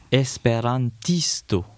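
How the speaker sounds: esperantisto said slowly, weight on tis; stress on the second-last syllable. Shown as a demonstration. Teacher showing how the suffix moves stress, slow esperantisto. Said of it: "si on rajoute le ist à la fin".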